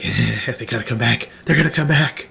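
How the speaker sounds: giddy character voice, climbing in pitch; giddy cauldron creature. Acted. Ixie waits by his cauldron for the party, giddy. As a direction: build with gleeful anticipation. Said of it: "he's all giddy. He's like".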